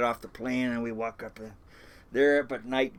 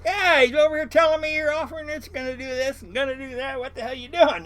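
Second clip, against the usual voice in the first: retold indignation; 12 semitones higher, 6 dB louder than usual. Phone quarrel retold.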